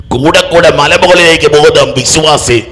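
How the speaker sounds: preacher crescendo; building to a shout. Acted. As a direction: build the sermon line to a ringing climax.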